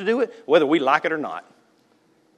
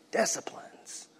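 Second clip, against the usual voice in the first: whispered repeat; 4 semitones higher, 11 dB quieter, slower than usual. Acted. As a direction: whisper the word Disciplines, unvoiced and soft.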